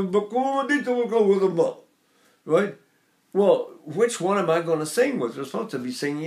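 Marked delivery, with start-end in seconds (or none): 0.0-1.8 higher Neapolitan lilt on "Ma come dici qualcosa di buono". Retold or imitated. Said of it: "down south, they go".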